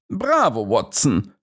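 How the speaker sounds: a touch of delighted approval; pleased praise. A narrator's reading. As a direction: praise your friend with a lift. Holmes praises Watson.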